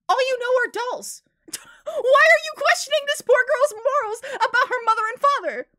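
high, loud, half-laughing outrage; exasperated rant. Real, not acted. Streamer ranting at the character who questions a child's morals, exasperated and laughing.

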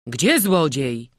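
loud, slow, curious asking; curious question. A narrator's reading. Curious townsfolk gather round the child, loud questioning. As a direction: call out the question, intrigued. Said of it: "powtórzyli zaciekawieni ludzie".

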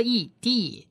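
"D" drawn out as dee with a long E; long vowel blend. Shown as a demonstration. Teacher adds the long vowel to Dalet, blending "E D". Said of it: "是长母音E".

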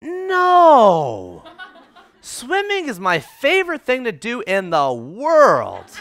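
loud, slow, laughing gush about swimming; bursting with delight, drawn out; laughing excited shout. Retold or imitated. Date gushing to him about her island cottage, laughing excited shout. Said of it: "this is what she says".

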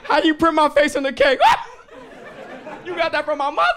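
loud, high, squealing thanks; hammed-up overjoyed inner child; friend's secret joy at his birthday cake; gushing delight. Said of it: "The twinkle in his eye was like".

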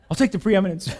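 chuckling through the words; laughing at his own joke. Real, not acted. Pastor jokes to the congregation about first place, laughing.

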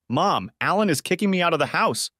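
telling mom she is kicked out; a touch of tears; crying. Acted. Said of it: "Lisa said, crying".

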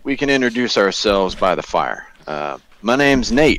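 high, flirty call out; flirty invitation. Acted. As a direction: charm the mysterious lady.

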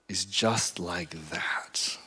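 slow hushed preacher whisper; dramatic whisper. Real, not acted. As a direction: drop to a whisper for weight. Preacher lands key point.

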